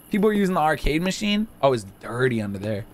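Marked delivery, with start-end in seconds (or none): none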